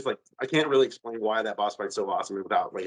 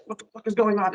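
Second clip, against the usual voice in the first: much higher, alarmed mock panic; shocked villain; 11 semitones higher, faster than usual. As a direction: squawk it like a villain caught off guard. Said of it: "And he's like".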